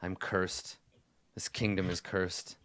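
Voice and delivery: subdued, defeated murmur; despairing king. Acted. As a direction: quietly declare your own doom. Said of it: "he shakes his head and he says".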